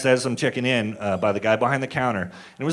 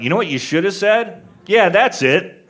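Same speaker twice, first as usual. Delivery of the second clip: higher mock recognition; playing the father; 5 semitones higher than usual. Mock father answering the clerk, higher and pleased. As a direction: pretend he finally recognized you. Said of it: "and I went".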